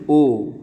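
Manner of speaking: "ओ" said loud and held as one long vowel; vowel demonstration. Shown as a demonstration. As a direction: sound out "ओ" clearly for learners. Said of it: "इसको कैसे पढ़ेंगे?".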